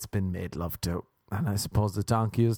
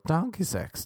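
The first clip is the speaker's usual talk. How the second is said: donkey-like bray; 8 semitones higher than usual. Real, not acted. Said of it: "I sounded like a donkey there".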